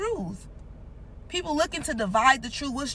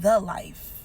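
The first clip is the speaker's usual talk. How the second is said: "The" leaned on, then "life"; "The" stressed over "life"; 4 semitones lower than usual. Shown as a demonstration. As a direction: hit the word "The" hard. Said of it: "But he said".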